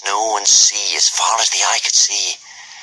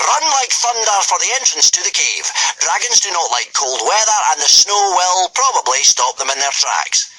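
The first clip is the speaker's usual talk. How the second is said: commanding Gobber; 6 semitones higher than usual. A narrator's reading. Gobber sending the boys up the cliff, commanding. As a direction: order the boys like a drill master.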